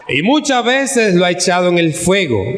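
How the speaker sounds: deliberate Bible reading, drawing out the plea; scripture reading. Acted. Preacher reads a father's plea for mercy, solemn scripture reading. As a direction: read the verse aloud, slowing toward the end.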